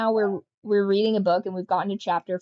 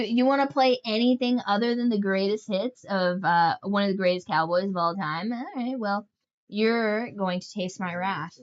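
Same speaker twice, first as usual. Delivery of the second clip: lightly voiced spiteful mare vowing wrath; a hint of a movie villain horse; vengeful horse. The grudge-holding horse's inner voice.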